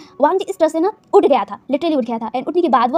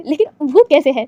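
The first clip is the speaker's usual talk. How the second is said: cracking up mid-line; 4 dB louder than usual. Real, not acted. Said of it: "मेरी हंसी के लिए, I'm really very sorry".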